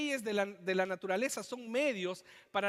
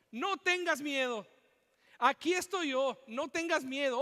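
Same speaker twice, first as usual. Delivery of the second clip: high, raised preaching cry of comfort; God shouting; 4 semitones higher, 3 dB louder than usual. Retold or imitated. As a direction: call out as God over the storm. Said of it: "El Señor grita y te dice". (Dios gritando con voz alta y firme)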